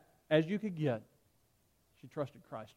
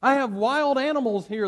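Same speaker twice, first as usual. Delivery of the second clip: much higher and louder menacing yell; threatening shout; 10 semitones higher, 10 dB louder than usual. Acted. Proconsul threatening Polycarp in the arena, shouting. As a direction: bellow the threat at the prisoner. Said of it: "the proconsul said".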